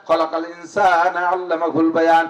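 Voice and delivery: slow recitation. Shown as a demonstration. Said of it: "repeated verse, slower".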